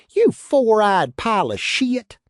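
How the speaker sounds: furious shout across the card table; angry cry. A narrator's reading. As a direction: throw the insult at him hard. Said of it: "Chris cried".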